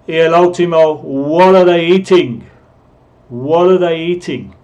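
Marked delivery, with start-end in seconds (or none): 1.0-4.5 "What are" linked as "wudda", pitched up a bit; reduced "are". Shown as a demonstration. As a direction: shrink "are" to a schwa after "What". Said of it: "así es como deberían hablar".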